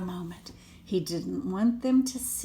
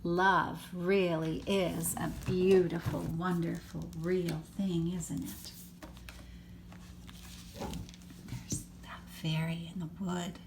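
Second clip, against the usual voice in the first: whispered aside; 3 semitones lower, 6 dB quieter than usual. Real, not acted. Hushed aside to child.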